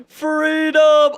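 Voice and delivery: high joyful shout; adrenaline rush. Real, not acted. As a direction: cheer it out loud. Escaping the dungeon.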